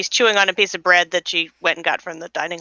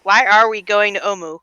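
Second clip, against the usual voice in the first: talking through a mouthful of bread; mouth full; 4 dB louder than usual. Acted. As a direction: chew and talk at once. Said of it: "Fitz is still cramming bread in her mouth".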